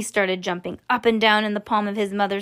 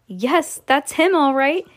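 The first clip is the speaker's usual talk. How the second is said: louder and higher confirmation; excited yell; 5 semitones higher, 4 dB louder, slower than usual. Acted. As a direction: rise into an excited call. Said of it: "yelled Mister Wonka".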